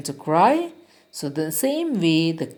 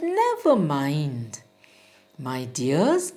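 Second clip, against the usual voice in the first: put-on gentle, slow comfort for crying children; comforting father; 5 semitones lower, 3 dB quieter than usual. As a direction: soothe them like a kind old father. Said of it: "because he was trying to cheer up".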